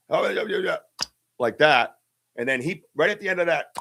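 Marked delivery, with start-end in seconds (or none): 0.1-0.8 high mock hooting "Oh, yeah, yeah, yeah"; a lightly done imitation of a creature's chest-pop call; imitated creature call. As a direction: copy the call you heard in the woods. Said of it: "So it was more like a".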